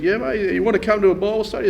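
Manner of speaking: imitating the cheery bloke. Retelling the bloke's invitation.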